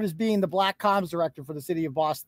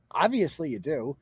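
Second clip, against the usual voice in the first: lower-pitched, settled repeat; dry rebuttal; 5 semitones lower, 4 dB quieter than usual. Real, not acted. Streamer repeats the rebuttal to the man, dry. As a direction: drop OBVIOUSLY low, as settled fact.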